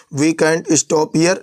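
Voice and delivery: very slow, every word spelled out; slow clear gloss. Shown as a demonstration. Teacher glossing for students, very slow and deliberate. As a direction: say it slowly for learners. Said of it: "teacher glosses phrase for learners".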